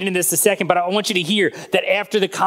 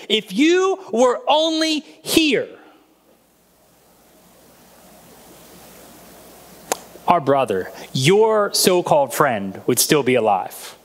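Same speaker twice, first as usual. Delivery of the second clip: final, hopeless; slower than usual. Acted. Mary telling Jesus it is over, with bitter finality. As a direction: say it like the last word on it. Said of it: "Do you hear the finality of".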